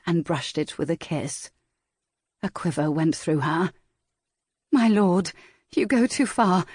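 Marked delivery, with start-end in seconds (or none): 4.7-6.6 protesting. A narrator's reading. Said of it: "she protested".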